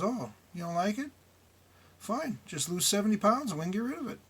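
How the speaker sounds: imitating a smug doctor's snide brush-off. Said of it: "replies in a real snide tone".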